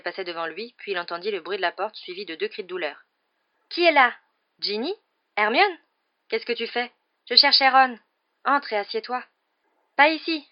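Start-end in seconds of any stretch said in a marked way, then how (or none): 3.7-9.2 high, loud acted exchange; startled calling out. A narrator's reading. Friends bumping into each other in darkness, calling out. Characters colliding in the dark. 10.0-10.5 high, loud, sudden objection; hasty protest. A narrator's reading. Harry stopping Ginny from sitting on him, hastily. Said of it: "dit précipitamment Harry".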